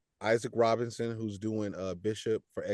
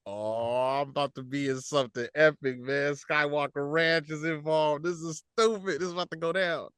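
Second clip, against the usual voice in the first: high, eager rush of fan excitement; hyped fan; 5 semitones higher than usual. Retold or imitated. Fan spotting the Lucasfilm logo, imagining something epic, hyped up. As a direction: gush like a fan seeing the logo.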